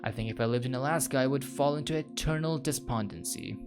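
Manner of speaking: chatty, theatrical inner monologue; storytelling read with a light dramatic lilt; lightly voiced game protagonist. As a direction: read it as a character musing to themself. Reads game protagonist's monologue aloud.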